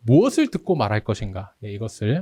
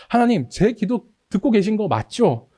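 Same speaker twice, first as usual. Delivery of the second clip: much higher, pleading question; anxious plea; 9 semitones higher than usual. Retold or imitated. Psalmist unsure God listens, anxious plea. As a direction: ask God with desperate doubt. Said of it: "이렇게 막 이제 계속 드리면서".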